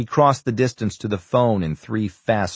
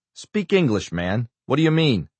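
impatient demand; 5 semitones higher than usual. Acted. Senator demands plain talk.

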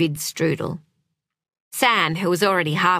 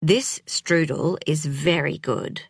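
careful and polite; 3 semitones lower than usual. Acted. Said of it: "in his careful, polite way".

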